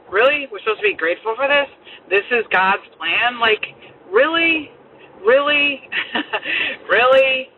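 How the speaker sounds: exasperated disbelief. Retold or imitated. Mother venting at God's plan.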